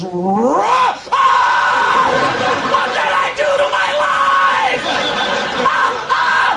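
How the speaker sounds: high anguished shout at the mirror; horrified yell. Retold or imitated. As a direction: scream in despair at your own face. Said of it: "he looks in it and goes".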